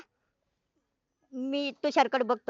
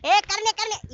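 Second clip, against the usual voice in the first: calling out; 7 semitones higher, 4 dB louder, slower than usual. Acted. Calling someone from afar.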